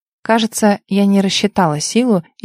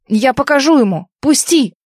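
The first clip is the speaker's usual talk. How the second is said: furious outburst; 5 semitones higher than usual. Acted. Vitya tries to break free.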